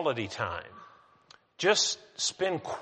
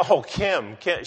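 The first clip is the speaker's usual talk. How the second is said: calling out; 3 semitones higher, 4 dB louder than usual. Retold or imitated. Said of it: "I called to her".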